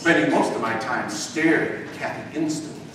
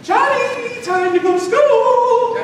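much higher singsong mom call; calling mother; 4 dB louder, slower than usual. Acted. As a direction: call through the door like mom. Mother calls son through door.

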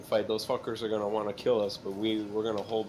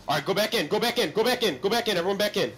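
shouting; 7 semitones higher, 4 dB louder than usual. Real, not acted. Calling team to engage.

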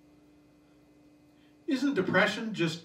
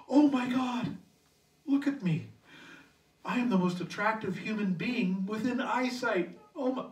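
mock self-admiring gasp, pitched up; vain inner voice; 5 semitones higher than usual. Shopper admiring himself in Walmart, mock vain delight. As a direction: preen over yourself in the store aisle. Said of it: "stopped and thought to themselves".

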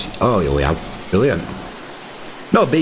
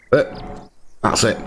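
whisper; slower than usual. Real, not acted. Quiet aside ending the thought.

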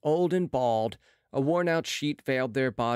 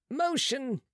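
a lofty, higher "Motion"; 13 semitones higher than usual. A narrator's reading. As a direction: say it from above, proudly. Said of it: "replied Marat loftily".

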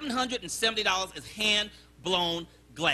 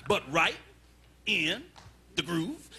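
customer with attitude; 4 semitones lower, slower than usual. Acted. Fussy diner repeats his exacting standard to the waiter, measured attitude. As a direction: lower finish in separate beats. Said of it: "he had an attitude problem".

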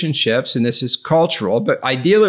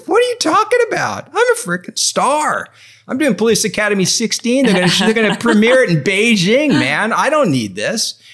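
high, hammed-up arrogant star voice; mock Steve Guttenberg; 8 semitones higher than usual. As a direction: play the boastful movie star brushing her off. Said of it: "He's like".

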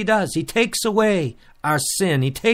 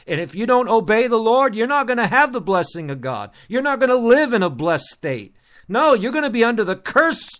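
urgent sermon delivery, pitched up; forceful preaching; 4 semitones higher than usual. Real, not acted. Preacher warning folks about disobeying the Lord, forceful preaching. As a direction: drive each warning home to the congregation.

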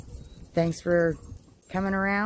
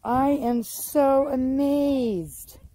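slow, stretched-out words of wonder; drawn-out amazement; 2 semitones higher, much slower than usual. Real, not acted. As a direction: savour every word, amazed. Gardener marvels at her radishes.

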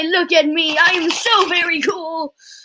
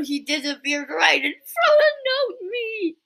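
mock crying; 6 semitones higher, slower than usual.

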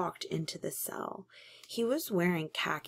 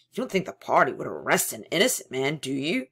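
servile; 2 semitones lower, 6 dB louder, faster than usual. Acted. Servile glance at telescreen.

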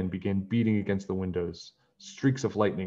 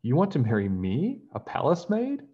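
rising, amazed question; surprised; 6 semitones higher than usual. Acted. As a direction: gasp out your disbelief. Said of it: "Peg gasped".

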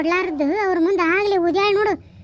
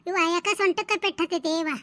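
groaning in pain; 3 semitones lower, 5 dB quieter than usual. Acted. Fallen old woman in pain.

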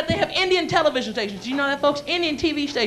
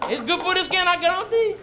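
lightly voiced Cajun character; a touch of folksy Cajun; mock-Cajun assurance; Cajun accent; 4 semitones higher than usual. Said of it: "A Cajun homosexual?".

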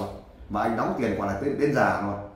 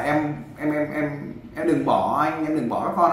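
mock crying plea; 5 semitones higher, slower than usual. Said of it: "khóc với vợ là".

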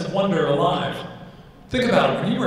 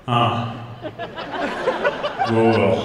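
low, hesitant mock reply; subdued reply; 6 semitones lower, slower than usual. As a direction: answer low with a long pause before the word. Operator answers, acted, deflated.

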